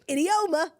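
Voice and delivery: idioma, each letter spelled out, American vowels; American accent. Retold or imitated. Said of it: "Or as Jackie would say".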